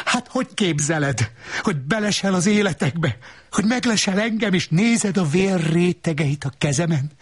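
magas, számonkérő női hang; vádlón, magasan; asszony hangja. Acted. Asszony veszekedő monológja. (magas hangú, szemrehányó asszony)

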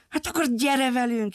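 a hint of a little girl calling; lightly voiced girl inviting the lion. Girl invites the runaway lion along, lightly voiced. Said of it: "hívta a kislány".

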